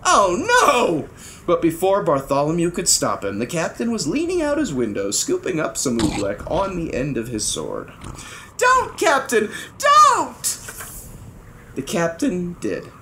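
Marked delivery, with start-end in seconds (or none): 0.0-1.1 dismayed. A narrator's reading. Bartholomew shocked. 8.6-10.6 shouting. A narrator's reading. Bartholomew tries to stop him.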